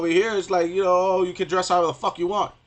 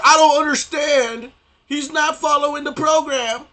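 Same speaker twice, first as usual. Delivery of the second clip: much higher, slow, dopey bewildered voice; mock confused people; 11 semitones higher, 6 dB louder than usual. Mocking people who call him brainwashed, dopey bewildered voice. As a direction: play them as baffled simpletons. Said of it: "they're like".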